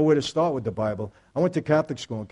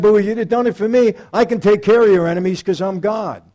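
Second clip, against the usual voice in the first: divine voice; 7 semitones higher, 9 dB louder than usual. Pretend. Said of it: "a bell went off and said".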